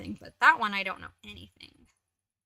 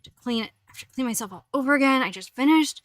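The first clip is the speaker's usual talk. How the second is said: voicing the cat; 3 semitones higher, 3 dB louder than usual. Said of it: "He's vigorously grooming himself".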